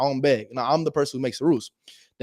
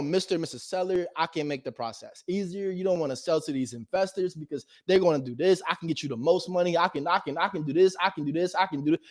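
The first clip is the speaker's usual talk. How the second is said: eager realtor pitch; 6 dB quieter than usual. Retold or imitated. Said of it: "they have to be like".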